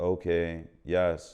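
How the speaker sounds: put-on flat low delivery. Recapping a TV episode, describing how the lines were read; Deshaun's dry monotone read. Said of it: "mad dry".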